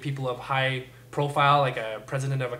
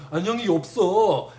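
quick, put-on voice of a jokey old person; mocking imitation of old folks' humour; joking old person; 3 semitones higher, 3 dB louder, much faster than usual. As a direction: play an old joker delighted with their own gag. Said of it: "some funny old people, they, they think they're so funny".

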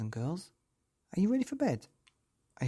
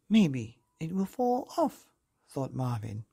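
put-on lively, sing-song storytelling voice for children; bedtime story narration; 2 semitones higher than usual. A narrator's reading. Narrator reading a picture book to children, lively and sing-song. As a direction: read it like tucking kids in.

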